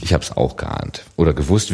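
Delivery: unvoiced playful whisper; co-host whispers a confession to his partner. Real, not acted. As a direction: whisper back like sharing a secret.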